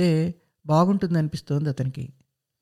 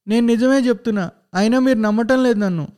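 higher, louder tearful protest; whiny crying plea; 5 semitones higher, 3 dB louder, faster than usual. Acted. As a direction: plead through put-on tears. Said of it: "ఏడుపు కాస్త ఎక్కువ చేసి అంటున్నాడు". (ఏడుపు గొంతుతో గట్టిగా వేడుకోలు)

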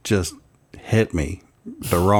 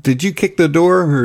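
higher-pitched imitation of a questioning kid; child's question; 8 semitones higher, 4 dB louder than usual. Son questions Dad about the door, lightly imitated child. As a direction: lightly mimic a child pressing for an answer. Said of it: "He's like".

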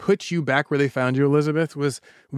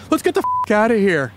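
higher, lightly acted yell; mild mock yell; 5 semitones higher than usual. Host voices nervous boy thief to accomplice, mild mock yell. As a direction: play a nervous burglar's yell, half-strength. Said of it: "and he yells".

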